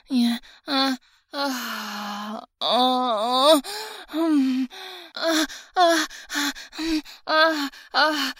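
high, loud moans; loud moaning. Acted.

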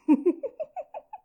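giggle. Acted. Teasing master about blushing.

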